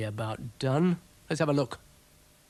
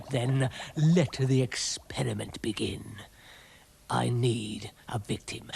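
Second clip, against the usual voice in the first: whispered villain scheming; sinister whisper. Acted. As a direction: hiss the plan like a mad scientist.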